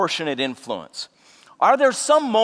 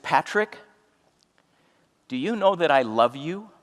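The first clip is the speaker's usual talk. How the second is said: tender question. Retold or imitated. To tearful friend Patrick, a hushed tender question. Asking friend about love.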